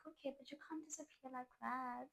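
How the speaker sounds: soft, giving-in protest; softly relent while still objecting; gentle lovestruck scolding, acted; melting. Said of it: "now I'm melting again".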